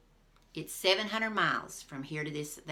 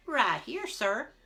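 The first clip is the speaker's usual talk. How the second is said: loud, higher reply; answering call; 5 semitones higher, 6 dB louder, slower than usual. A narrator's reading. Eatwell answers Jack loudly, ready. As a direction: sing out you're here.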